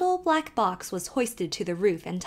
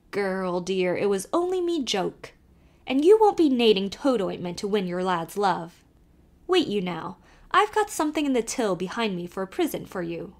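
put-on lively Irish accent, calling to the horse; old Irish driver calling out; Irish carter; 4 dB louder than usual. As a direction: urge the nag on in a brogue. Kelly reassures Emily.

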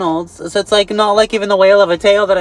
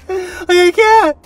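exasperated whine; 10 semitones higher, slower than usual. Acted. Exasperated repeat.

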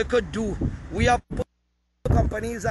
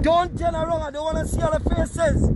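raised, higher commanding call to the crowd; 4 semitones higher than usual. Real, not acted. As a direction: order the crowd to keep facing forward. Ordering the crowd not to turn.

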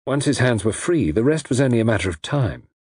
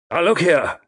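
raised, higher-pitched objection; indignant protest; 8 semitones higher, 4 dB louder than usual. A narrator's reading. Captive protests to villain.

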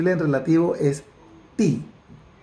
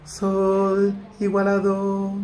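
slow; 2 semitones higher, much slower than usual. Shown as a demonstration. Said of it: "spoken slowly".

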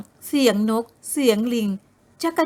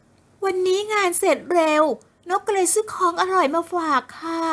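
put-on sweet young woman; 7 semitones higher than usual.

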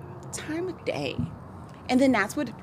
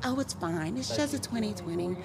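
chill driver; 7 dB quieter than usual. Retold or imitated. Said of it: "He was like".

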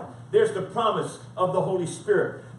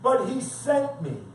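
emphatic scripture reading, pitched up; forceful preaching; 4 semitones higher, 5 dB louder, slower than usual. Acted. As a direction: preach it as a firm rebuke.

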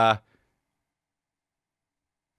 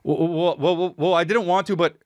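lightly voiced sheepish friend; a hint of a guilty buddy explaining; sheepish friend excuse; 7 semitones higher than usual. Retelling the friend's guilty excuse, lightly voiced. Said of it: "he starts off the conversation with".

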